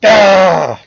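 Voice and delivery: sudden loud, high mock scream; imitated yell. Streamer mimicking his bro at the camera, mock yell. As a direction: imitate your buddy yelling at the camera. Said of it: "I like it when yo, bro, yells".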